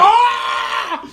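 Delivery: sudden high excited shout; excited yell. Retold or imitated. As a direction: yell out as the goal goes in. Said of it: "jumped up off the couch and freaked out".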